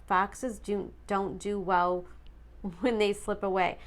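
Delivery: tripping over the words while reading; stuttering. Real, not acted. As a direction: stumble and stutter on the line. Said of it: "why I'm stuttering through that".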